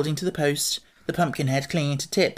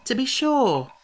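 high, gently placating reply; soothing; 10 semitones higher than usual. A narrator's reading. Boy to his offended steed, soothing and high. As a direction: soothe in a lifted boyish voice. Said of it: "answered Tip soothingly".

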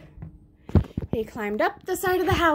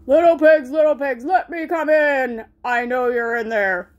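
a lightly voiced wolf calling, louder; 5 dB louder than usual. Wolf calling to the pigs at the brick house. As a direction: coax them from outside.

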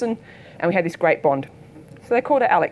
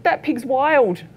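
slow warning; 6 semitones higher, much slower than usual. Retold or imitated. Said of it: "And she goes".

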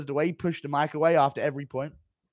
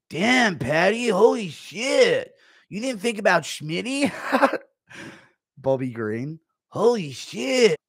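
lightly voiced Nate Diaz, slow and stunned; Nate Diaz impression; 3 semitones higher, slower than usual. Nate Diaz reacting to Schmitty's rant, lightly voiced stunned drawl. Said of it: "Impression of Nate Diaz reacting".

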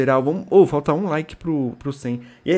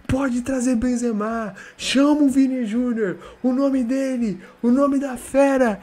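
high, drawn-out hailing of a hero, like a hyped commentator; ecstatic praise; 9 semitones higher, 5 dB louder, slower than usual. Real, not acted. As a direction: chant the player's praises. Hailing the hat-trick hero. (exaltação eufórica do craque)

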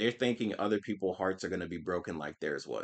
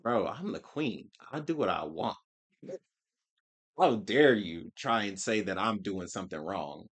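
proud queen. Retold or imitated. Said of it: "Suisei like".

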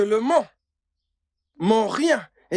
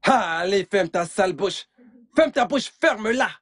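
angry snap. Acted. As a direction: tell him to shut his mouth, annoyed. Quarrel over the kidneys. (ordre sec et agacé de se taire)

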